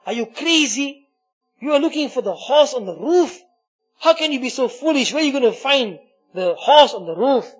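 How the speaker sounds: mild storyteller's shout of disbelief; shouting back. Acted. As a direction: scold the fool on the roof. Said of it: "shouted back to him".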